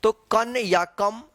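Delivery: कन या कम said slowly, n then m clearly; nasal endings demo. Shown as a demonstration. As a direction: spell out कन and कम slowly. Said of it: "कहीं पे आधा म के उच्चारण होता है".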